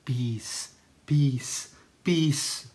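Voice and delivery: soft, hushed peace greeting, lightly mocking; mock churchgoer. Vlogger mocking churchgoers trading the sign of peace, softly. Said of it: "Di ba sasabihin nyo".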